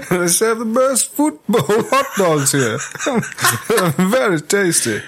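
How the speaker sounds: mock film villain. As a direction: draw it out pompously, on the edge of laughing. Joining in the villain hot dog bit.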